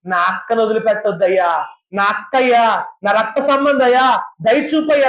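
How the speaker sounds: a touch of weeping in the plea; tearful plea. Acted. Moses begging God to spare his sister, mild tearful plea. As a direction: plead gently, half in tears. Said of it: "అని ఏడిస్తే".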